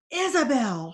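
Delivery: high frantic shriek of a name. Acted. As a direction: scream her daughter's name. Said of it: "her mother shrieked".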